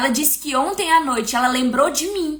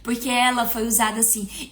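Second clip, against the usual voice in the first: retold prayer; 4 semitones lower, 5 dB quieter than usual. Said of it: "Eu comecei a dizer".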